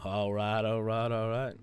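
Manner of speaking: lazy Southern drawl, stretched vowels; a rough, butchered Southern accent. Shown as a demonstration. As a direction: drawl it out like a laid-back Texan. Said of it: "Southern drawl".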